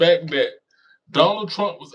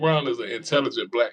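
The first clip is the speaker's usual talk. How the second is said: ordinary talk, nothing marked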